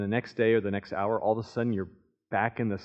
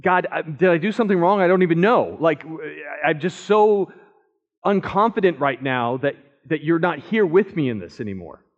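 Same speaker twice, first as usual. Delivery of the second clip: louder, higher, urgent plea to God; pleading David; 4 semitones higher, 4 dB louder than usual. Pretend. David begging God not to hide his face, pleading. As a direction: beg like a man afraid of being abandoned.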